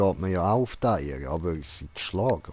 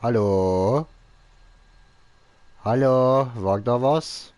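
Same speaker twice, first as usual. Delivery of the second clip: rufend; 5 semitones higher, 8 dB louder, slower than usual. Real, not acted. Calls out into dark.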